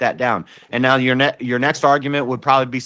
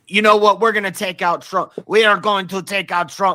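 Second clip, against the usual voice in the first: poor fake Spanish accent, pitched up; 7 semitones higher than usual. Imagining what a foreign leader might say about Trump, bad Hispanic accent. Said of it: "That's not a good uh, Hispanic accent".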